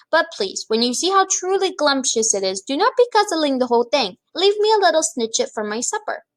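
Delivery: high, pleading giant voice; coaxing BFG. Acted. BFG coaxing the Bloodbottler to take a bite, high and pleading. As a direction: sweetly coax the big giant.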